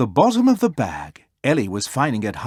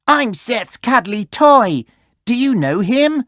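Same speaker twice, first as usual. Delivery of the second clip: put-on hopeful toy asking the kids; toy's voice; 10 semitones higher, 4 dB louder than usual. A narrator's reading. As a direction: cuddly toy to the children. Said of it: "said to the children".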